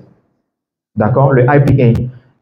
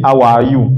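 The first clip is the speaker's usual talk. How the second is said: HOW ARE YOU with equal weight on each word; level, word-by-word HOW ARE YOU; monotone; slower than usual. Retold or imitated. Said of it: "tu prononces en fait toutes les syllabes de la même manière". (HOW ARE YOU dit sans intonation)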